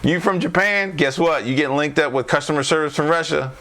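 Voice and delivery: playful teasing punchline; punchline build. Real, not acted. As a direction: hit the joke with rising excitement. Punchline of the customer service rant.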